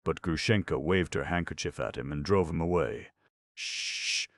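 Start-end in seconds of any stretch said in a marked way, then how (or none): 3.5-4.3 hushing whisper. Acted. Drunk Grushenka hushes.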